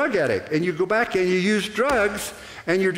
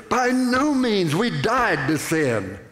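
slow, weighty By no means; emphatic reply; slower than usual. Retold or imitated. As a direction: stretch out the denial firmly. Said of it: "And it says".

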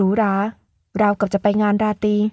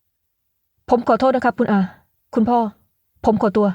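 stern voice; much slower than usual. Acted. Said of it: "เอ่ยขึ้นเสียงเข้ม".

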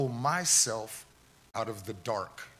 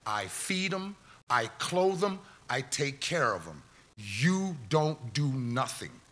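much higher, firmer voice ending slow; defiant mom; 5 semitones higher, 3 dB louder than usual. Retold or imitated. Mom telling store strangers to stay out of it, high and defiant. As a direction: plant your feet and tell the crowd off like his mom.

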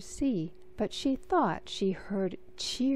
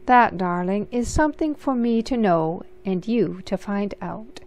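teasing twinkle; 5 dB louder than usual. Acted. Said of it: "said with a twinkle in her eye".

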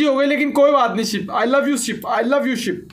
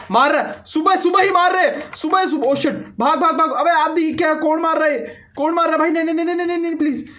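frantic pleading, much higher and rising; panicked; 7 semitones higher than usual. Real, not acted. Gamer fleeing a mob at dawn, panicked. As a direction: scramble away in a blind panic.

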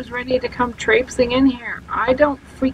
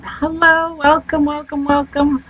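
bright, raised welcome to the viewers; cheery host welcome; 6 semitones higher than usual. Real, not acted. Streamer welcoming her viewers, upbeat and higher. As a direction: greet the chat like a show host.

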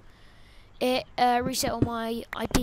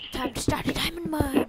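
whispering. Real, not acted. Whispered aside while recording.

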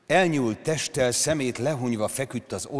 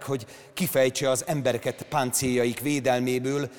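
usual speaking voice

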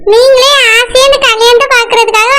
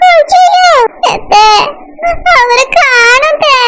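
crying; 3 semitones higher, slower than usual. Acted. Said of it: "நீ இப்படி கொஞ்ச நேரம் அழாம இரு".

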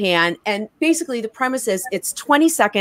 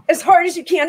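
higher, laughing push to go hard; laughing coach; 7 semitones higher than usual. Acted. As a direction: cheer them on through a laugh. Coaching during the exercise.

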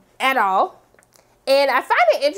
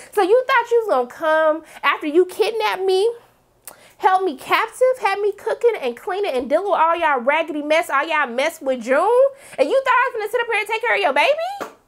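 raised-pitch, affronted rant; indignant; 6 semitones higher than usual. Acted. Acting out the captive confronting her captor, indignant. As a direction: build to an incredulous high question.

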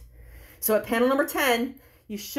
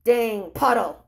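grumpy reply; 2 semitones lower, 3 dB louder, slower than usual. Acted. Grown-up grumbling at the doorman about the puddle, sour. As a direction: mutter it like a grump with wet shoes. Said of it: "his response is".

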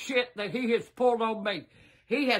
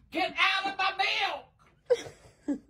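angry yell; 5 semitones higher than usual. Real, not acted. Grandma orders grandson off her milk.

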